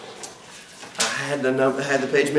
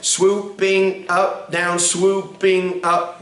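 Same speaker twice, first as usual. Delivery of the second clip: slow, drawn-out counting of the swoop; slow counted demo; much slower than usual. Shown as a demonstration. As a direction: draw each swoop out slowly for the class. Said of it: "everybody start down and we're gonna swoop up".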